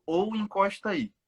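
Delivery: high, slow mock yell; quoted shout. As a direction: mimic the officer's call, drawn out. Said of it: "você só gritou".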